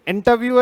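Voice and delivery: इंटरव्यू said "in-ta-view", no R; silent R. Shown as a demonstration. Teacher quizzes students on pronunciation, इंटरव्यू with silent R. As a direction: drop the R in इंटरव्यू. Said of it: "ना कि र नहीं बोल के".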